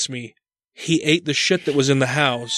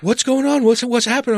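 higher, mock-worried wife; wife asking; 9 semitones higher than usual. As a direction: ask like a startled wife. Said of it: "She's like".

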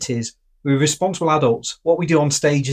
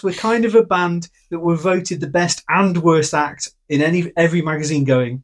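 rock singer impression; 2 semitones higher than usual. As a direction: stretch the opening like a cocky frontman. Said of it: "I'll try this one".

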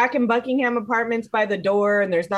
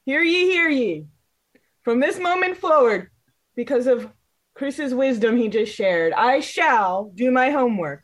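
lightly voiced town crier proclamation; hint of a mock royal decree. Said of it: "I have a declaration".

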